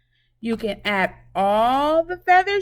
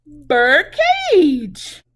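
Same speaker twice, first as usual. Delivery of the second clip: laughing; 7 dB louder than usual. Real, not acted. Shows the cage, laughs.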